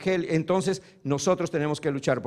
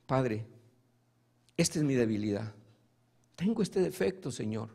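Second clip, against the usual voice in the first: humble prayer; 6 semitones lower, 5 dB quieter than usual. Acted. Believer praying humbly at the throne.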